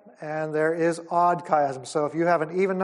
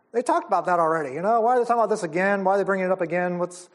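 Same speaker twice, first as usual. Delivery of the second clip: hurried, mildly puzzled questioning; puzzled readers; much faster than usual. Acted. Readers wondering why the Bible repeats itself, mildly puzzled. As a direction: rattle off a confused reader's thoughts. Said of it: "when we read books of the Bible, we think".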